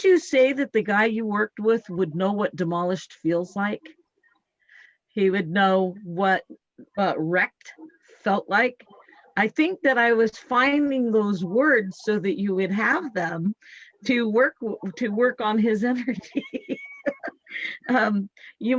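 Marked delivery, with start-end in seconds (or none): none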